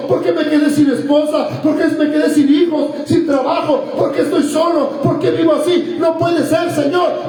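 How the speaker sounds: preacher voicing the sufferers' protest; acted lament. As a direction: build a litany of pleading whys. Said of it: "Por eso muchos dicen".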